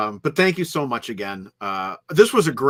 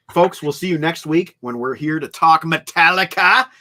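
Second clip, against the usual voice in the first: loud, raised pitch, lifting at the end; excited sign-off; 6 semitones higher, 8 dB louder than usual. Real, not acted. Host teasing next week's show to listeners, excited. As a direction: build up to the band name with a rising finish.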